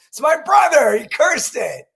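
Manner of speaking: high, loud mock blame; laughing protest. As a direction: point the finger at the brother, grinning. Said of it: "And I go".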